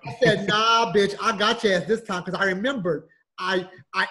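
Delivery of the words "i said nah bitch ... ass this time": louder, triumphant taunt; gloating. Retold or imitated. Man catching out the bill collector, loud and gloating. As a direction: crow over the caller.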